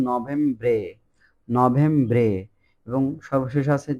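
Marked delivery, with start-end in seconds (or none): 0.1-2.3 নভেম্বরে as no-VEM-bre; Italian novembre. Shown as a demonstration. Teacher modelling Italian November, careful pronunciation. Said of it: "নভেম্বর কি বলছে".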